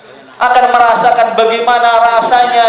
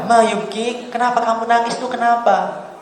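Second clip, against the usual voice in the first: gentle question; 7 dB quieter than usual. Retold or imitated. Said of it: "Sayyidina Dhunnun ditanya".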